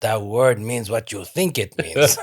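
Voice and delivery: lightly put-on movie character voice; playful, lightly acted film line; mock movie quote. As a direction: quote the film with a hint of accent. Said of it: "As in Princess Bride".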